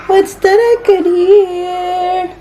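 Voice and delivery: put-on high, slow sing-song coo to the baby; baby talk. Mother coos over crying baby. (mataas at mabagal na lambing sa baby)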